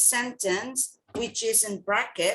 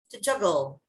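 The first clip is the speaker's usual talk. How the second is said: to juggle, lower, as a model phrase; stress demonstration; 4 semitones lower than usual. Shown as a demonstration. Teacher asks class which syllable of juggle, stress demonstration. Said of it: "is it on second or first?".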